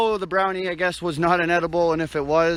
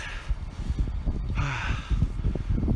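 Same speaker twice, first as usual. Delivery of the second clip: long, tired panting exhale; heavy out of breath exhale; 2 semitones lower, 5 dB quieter than usual. Real, not acted. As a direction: blow out a breathless sigh. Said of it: "I'm out of breath".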